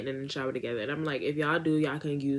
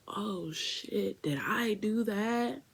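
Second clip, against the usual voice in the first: sheepish Urkel impression; whiny little did I do that; 4 semitones higher, 6 dB quieter, much slower than usual. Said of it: "Yeah, Urkel".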